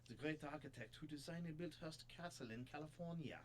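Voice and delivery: attempted French accent, lightly done; a shaky go at a French detective; amateur French accent, mildly put on. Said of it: "I keep lapsing into German".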